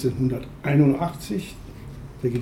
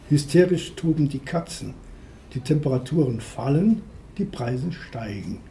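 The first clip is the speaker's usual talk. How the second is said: raised, declaimed verse, one short statement at a time; poetry reading. Acted. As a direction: recite it like a list of omens, dropping on the last line. Liest eigenes Gedicht Eiszeit vor. (Gedichtvortrag, Zeile für Zeile deklamiert)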